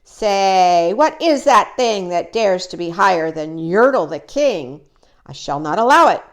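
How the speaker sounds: boastful king. Acted. Yertle rants about higher throne.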